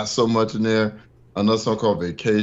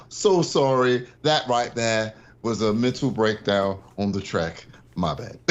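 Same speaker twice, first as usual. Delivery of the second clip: imitating English rapper; 3 semitones lower, slower than usual. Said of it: "He's like".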